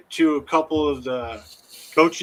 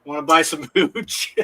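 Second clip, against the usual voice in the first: secretive raspy sales murmur. Pretend. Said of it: "I'm gonna use that as a response".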